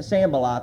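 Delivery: "Sanballat" said SAN-ba-lot, stress on the first syllable; pronunciation shown. Shown as a demonstration. Preacher shows how he'll say the name, careful pronunciation. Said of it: "That's how I'm gonna try to pronounce that".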